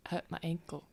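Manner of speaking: soft, whispery justification; quiet in character. Acted. Tavamil compares her ankle to Lucian's leg, whispery quiet. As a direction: argue it in a near-whisper.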